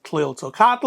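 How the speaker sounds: Tliltocatl with a voiced "tul" ending instead of a puff; common anglicized pronunciation. Shown as a demonstration. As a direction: say Tliltocatl English-style, full vowel in the final tl. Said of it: "a lot of us will say".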